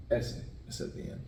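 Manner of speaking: S is at the end, whispered back; S whispered, as "ese"; whispered repeat. Shown as a demonstration. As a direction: breathe it softly like a prompt.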